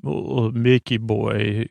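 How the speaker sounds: slow, drawn-out imitation; mildly put-on, slow and jokey; funny way. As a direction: lightly mimic a funny greeting, stretched out. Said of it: "he says it in a funny way".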